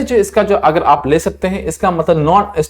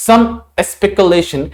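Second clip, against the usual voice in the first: reading example sentence; much slower than usual. Shown as a demonstration. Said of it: "use किया गया था".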